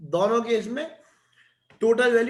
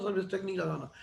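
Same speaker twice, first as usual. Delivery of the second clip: said softly, without any fuss; low-key request; 6 dB quieter than usual. Retold or imitated. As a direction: ask the waiter quietly, voice lowered in volume. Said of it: "धीरे से बुला के बोलता हूँ". (धीरे से, दबी आवाज़ में)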